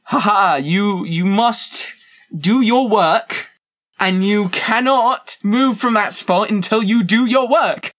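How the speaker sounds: high, slow, bossy villain voice; mean bad guy. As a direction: lord it over the kid like a cartoon tyrant. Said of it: "they're just sitting there and going".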